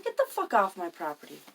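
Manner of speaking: firm, angry kick-out; retold angry order. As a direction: order them out, raising your voice. Retold order to unwanted visitors.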